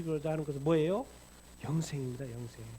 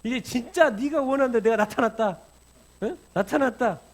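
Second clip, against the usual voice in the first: higher, louder rebuking voice; a raised, scolding Lord; Jesus scolding; 6 semitones higher, 9 dB louder than usual. Acted. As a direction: call him out for doubting, loudly. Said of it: "주님한테 꾸중을 들을 거죠".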